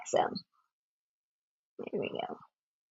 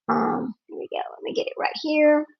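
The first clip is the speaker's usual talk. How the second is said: whispering; 3 semitones higher, 8 dB quieter than usual. Real, not acted. Quietly fiddling with the clip.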